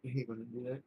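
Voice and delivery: hiccuping mid-sentence; words broken by a hiccup. Real, not acted. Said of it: "now I've got the hiccups".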